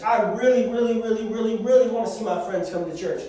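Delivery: put-on a kid praying hard for family; earnest pleading. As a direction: beg with building urgency. Pleading prayer example.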